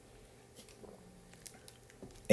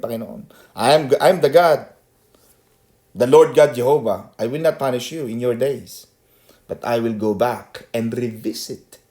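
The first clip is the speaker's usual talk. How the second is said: voice of God. Retold or imitated. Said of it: "Diyos ang nagsasalita, Yahweh, sabi niya".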